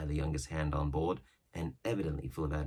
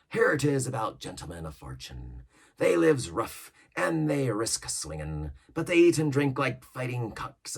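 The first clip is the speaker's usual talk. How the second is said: lightly voiced old pirate, a touch higher and louder; Long John Silver; 4 semitones higher, 6 dB louder than usual. Silver yarning to the crew about old ships, mild pirate voice. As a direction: spin the yarn like an old sea cook. Silver lays out his plan.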